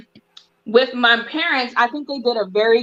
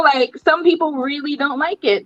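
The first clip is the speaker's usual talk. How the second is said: ordinary talk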